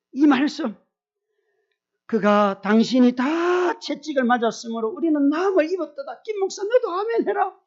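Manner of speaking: high, loud fervent churchy mother-in-law; preaching mother-in-law. Retold or imitated. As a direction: urge him to say amen at full force. (높고 크게 외치는 장모님 말투)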